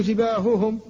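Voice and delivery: جباههم with breathy, voiceless ه sounds; whispered ha. Shown as a demonstration. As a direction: correct جباههم with clean ه. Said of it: "فتقول".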